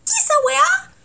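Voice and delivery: "¿qué esa weá?" shooting up high at the end; sharp upward Chilean question; rising Chilean intonation. Shown as a demonstration. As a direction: let "¿qué esa weá?" climb steeply.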